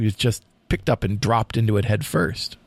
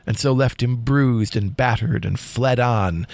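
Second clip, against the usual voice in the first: dramatic poem reading. A narrator's reading. Host reads the final lines to co-host, dramatic poem reading. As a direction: read the tale as solemn storytelling verse. Reads poem's ending aloud.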